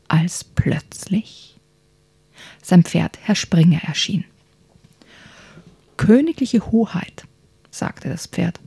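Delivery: lively bedtime story narration, hushed at times; reading to children. A narrator's reading. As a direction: tell it like a bedtime story for kids. Reads a children's book aloud. (Kindergeschichte vorlesen)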